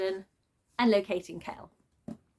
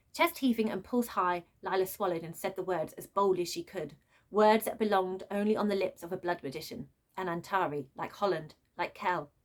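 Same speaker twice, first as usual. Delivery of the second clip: story narration. A narrator's reading. Reader narrating the book to her viewers, in a read-aloud voice. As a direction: read the novel passage like an audiobook.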